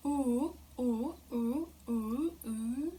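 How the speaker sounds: "Ooh" said without rounding the lips; oo with neutral lips. Shown as a demonstration. Teacher showing oo with neutral lips to students. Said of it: "trying to pronounce oo with our lips being in neutral position".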